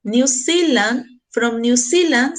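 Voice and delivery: very slow, word by word; teacher modelling "New Zealand" slowly; slow demo. Shown as a demonstration. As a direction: spell it out slowly for the class. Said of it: "significa de Nueva Zelanda".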